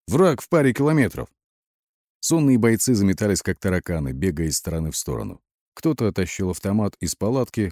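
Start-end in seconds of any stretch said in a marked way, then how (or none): 0.1-1.3 raised, high-pitched alarm; roared warning. A narrator's reading. Митин warns soldiers of enemy, roaring. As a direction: rouse them with the warning. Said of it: "вновь заревел во всю глотку Митин".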